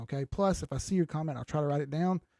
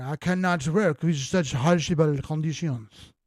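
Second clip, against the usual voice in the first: slow, louder hammed-up French accent; 5 dB louder, slower than usual. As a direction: put on a drawn-out, amateur French accent. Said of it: "Do a French accent".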